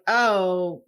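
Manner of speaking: dismissive, condescending brush-off; lightly mocked condescension, drawn out. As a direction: imitate someone condescendingly waving it away. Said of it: "condescendingly try to be like".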